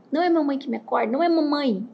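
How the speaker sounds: hint of an insistent toddler; Baby Sauro imitation. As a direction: imitate a small child rejecting mom. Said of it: "Igual o Baby Sauro".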